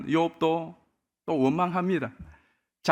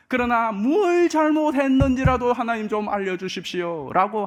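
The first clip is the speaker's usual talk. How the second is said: Job's exasperated protest to God, a bit louder; mock angry complaint; 5 semitones higher, 4 dB louder than usual. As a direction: plead and protest as the wronged man. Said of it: "뿔이 나서 원망을 퍼붓습니다". (억울하게 항변하는 욥, 약간 큰 소리로)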